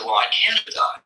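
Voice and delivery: pitched well up in protest; indignant disbelief. Acted. Dead soul to the voice, high disbelieving protest. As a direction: insist you can't be dead.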